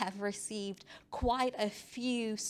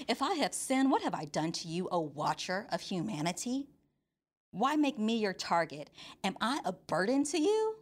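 spicy Job. Acted. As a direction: challenge God with building sass. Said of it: "this is where Job gets real spicy".

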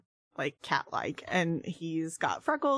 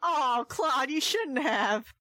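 put-on old prospector; 5 semitones higher, slower than usual. Touched thanks in character.

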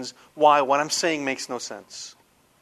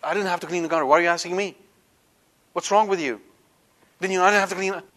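defensive retort; 3 semitones higher, much faster than usual. Retold or imitated. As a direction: push back as if unfairly accused, but only lightly. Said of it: "Do not say".

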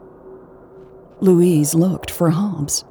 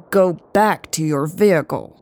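threatening. Acted. Hobbs warning Lucas off, threatening. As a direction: make it an order with a threat behind it. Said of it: "in a threatening tone".

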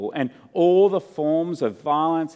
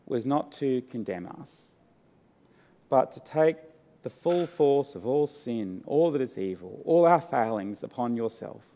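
prayer. Real, not acted. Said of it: "Let's pray".

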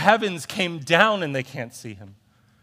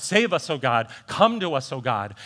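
crying out; 3 dB louder than usual. Retold or imitated. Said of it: "they're crying out".

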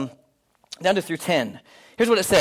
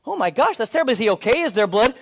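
alarmed; 3 semitones higher than usual. Retold or imitated. Pastor reacts to accident.

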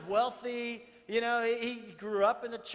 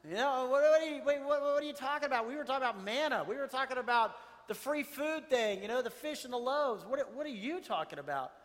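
confused disbelief; 4 semitones higher, 3 dB louder than usual. Retold or imitated. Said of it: "they're probably all going".

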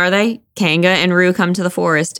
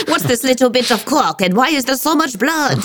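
lightly put-on, raised detective voice; a hint of a baffled detective, higher than usual; playful mock-sleuth questioning; Hercule Poirot; 5 semitones higher than usual. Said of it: "Someone call Hercule Poirot".

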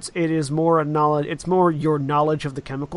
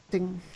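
chime ding; 4 semitones higher, 7 dB quieter than usual. Acted. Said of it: "you hear a ding sound".

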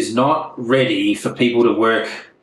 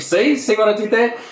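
smug; 9 semitones higher than usual. Real, not acted. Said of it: "That was the worst segue".

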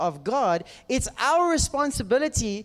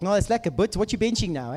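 light South African gym-bro voice; easy Saffa slang delivery; broad South African accent; 4 semitones lower than usual. Retold or imitated. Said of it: "It's like".

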